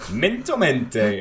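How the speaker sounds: slow mispronunciation. Acted. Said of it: "breath mints".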